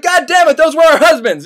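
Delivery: high, loud indignant wail; two women upset their husbands were shot; mock dismayed cry. Women dismayed at killed apes.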